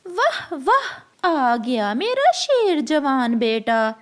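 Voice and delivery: put-on a proud mother crow praising her boy. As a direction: gush over your brave son.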